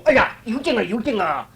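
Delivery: frightened cry. Acted. King frightened by disciples.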